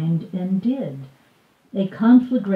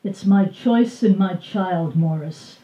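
calm but strained. Acted. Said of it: "much more calmly than she feels".

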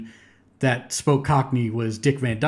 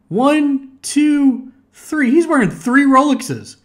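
amused disbelief; 4 semitones higher than usual. Real, not acted. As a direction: point it out like you cannot believe it. Spots the three watches.

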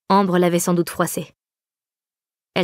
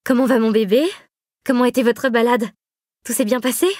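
put-on high, gushing baby talk to the infant; giddy new mother cooing; euphoric cooing; 4 semitones higher than usual. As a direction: coo over the baby, overjoyed. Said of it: "Rosalie était euphorique, surexcitée".

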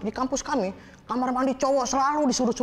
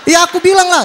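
normal talking voice

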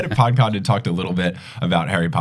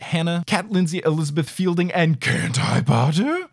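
evenly paced roll call of names; steady list read, pitch lifting toward the end; patron roll call; 4 semitones higher, 4 dB quieter than usual. Acted. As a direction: read the list in pairs, rolling straight on.

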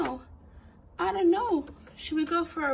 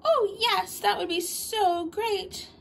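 delighted gasp; 4 semitones higher, slower than usual. Acted.

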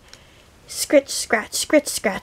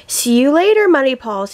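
calling out; 3 semitones higher, 4 dB louder, faster than usual. Acted. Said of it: "he cried".

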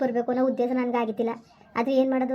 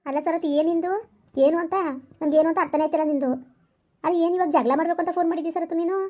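wife flaring up at her husband on the phone, indignant and higher; indignant outburst; 4 semitones higher than usual. Acted. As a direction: throw his words back at him, flaring. Phone quarrel, wife flares up.

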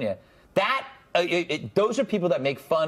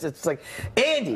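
vocal fry. Shown as a demonstration. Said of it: "goes like this".

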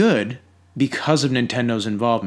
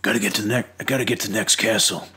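flat celebrity Mario voice; 2 semitones lower, faster than usual. Pretend. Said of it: "larger than life cartoon character voice".

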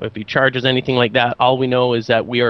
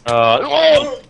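high excited shout; 11 semitones higher, 3 dB louder than usual. Real, not acted. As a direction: hype it up loud. Showing hand, hyped.

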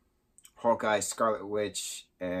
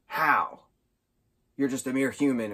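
Thanos villain; 3 semitones higher, 5 dB louder than usual. Retold or imitated. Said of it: "Thanos is like".

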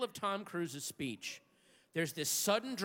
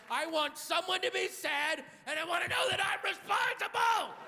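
higher, building to a shout; mock furious New Yorker; 10 semitones higher than usual. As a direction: snap like a city-frazzled lunatic.

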